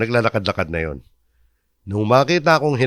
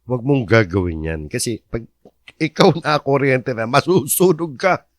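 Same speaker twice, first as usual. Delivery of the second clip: put-on explaining to child; 2 semitones higher than usual. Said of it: "sabi ko sa kanya".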